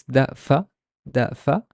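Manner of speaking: da fa as two separate syllables; teacher building da fa syllable by syllable; sounding out. Shown as a demonstration. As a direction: set da and fa apart. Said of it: "How would I pronounce this?".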